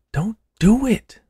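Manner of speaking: high, slow pleading; begging. A narrator's reading. Orderly begging his friend not to shave the mole. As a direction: plead with him to stop. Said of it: "Scoot begged".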